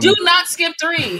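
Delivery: loud, high, slow insistence; emphatic protest. Real, not acted. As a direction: forbid it loudly, one word at a time. Emphatic protest at skipping film.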